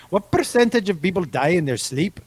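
a second, mild try at an Irish accent. Shown as a demonstration. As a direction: repeat it in a light Irish accent. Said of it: "Best Irish accent ever".

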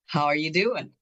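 ordinary talk, nothing marked

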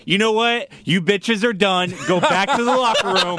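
high-pitched, emphatic mock telling-off; scolding dad. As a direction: lay down the law like a fed-up father. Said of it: "Like a dad".

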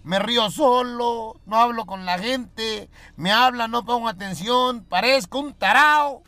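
dazed patient. Acted. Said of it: "le dijo, "Doctor".

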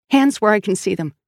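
mildly acted gunpoint command; firm police command. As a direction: order the suspects to comply. Detective orders two at gunpoint.

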